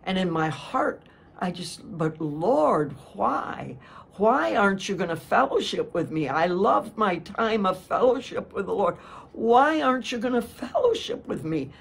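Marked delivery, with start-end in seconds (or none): 2.0-11.7 anguished plea. Retold or imitated. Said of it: "This is all internal".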